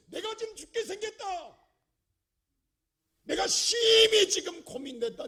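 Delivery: high, strained-out cry of mortal distress; impassioned, high-pitched dramatised lament; anguished Jesus. Acted. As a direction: cry it out as a preacher acting agony. Voices Jesus' anguish in Gethsemane.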